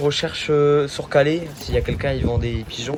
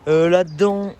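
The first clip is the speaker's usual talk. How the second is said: louder, raised over the wind; shouting over wind; 4 semitones higher, 6 dB louder than usual. Real, not acted. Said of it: "vous m'entendez bien avec le vent".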